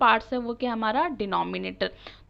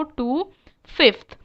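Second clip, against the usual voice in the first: drawn-out, deliberate "टू फिफ्थ" for the class; slow demo reading; 3 semitones higher, much slower than usual. Shown as a demonstration. Teacher modelling the fraction name for pupils, slow and clear. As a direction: stretch each word so students can copy it. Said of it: "क्या कहेंगे इसको?".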